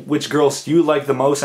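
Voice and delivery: nervous stutter; stumbling, stuttering over words. Real, not acted. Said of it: "I'm sorry if I'm stuttering".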